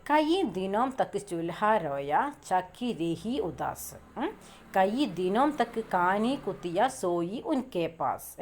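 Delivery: slow, measured reading of a Hindi poem, words drawn out; poem recitation. Shown as a demonstration. Teacher reading the stanza aloud to the class, slow and measured. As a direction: recite each line slowly so students follow.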